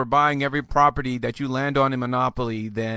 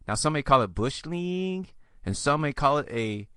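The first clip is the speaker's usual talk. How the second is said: "League" rising like a question; uptalk. Shown as a demonstration. Host on what some may call it, in uptalk with "League" rising. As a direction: end "Bush League" up in the air as if asking. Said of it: "I'm gonna stop doing that".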